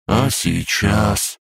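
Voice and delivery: всхлипывая; sniffling. A narrator's reading. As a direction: sniffle it out like a sad child. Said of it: "всхлипнул дракоша".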